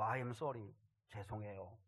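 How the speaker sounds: low, soft, subdued sorry; timid apology, imitated. Injured son apologizes to his adoptive father, timid and quiet. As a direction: quote a child apologizing meekly, voice dropped. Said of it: "아버지 눈치를 이렇게 보더라".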